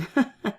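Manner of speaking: hare's laugh. Acted. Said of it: "Henry laughed".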